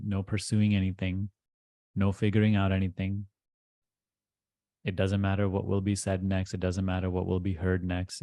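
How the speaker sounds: even, steady meditation voice with little pitch movement; guided meditation. Acted. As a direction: lull them into letting go, phrase by phrase.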